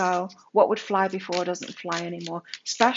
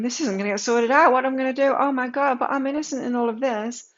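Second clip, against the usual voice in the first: louder, higher mock panic; freaking out; 4 semitones higher, 4 dB louder than usual. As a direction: play up a frantic worry. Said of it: "freaking out".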